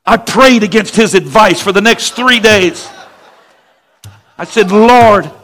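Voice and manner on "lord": slow, sung prayer over music; mock fervent prayer. Pastor retelling his prayer against his father's doubt, fervent. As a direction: pray it out like a revival plea.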